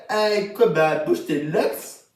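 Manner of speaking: slow, drawn-out "bouge tes locks"; slow, lingering repeat of the hook. Shown as a demonstration. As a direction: stretch the hook out lazily. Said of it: "c'est aussi le mec qui a fait".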